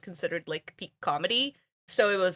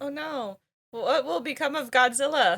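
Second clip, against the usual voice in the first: higher, hammed-up worry; mock dismay; 5 semitones higher than usual. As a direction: play at fretting over the hero's fate.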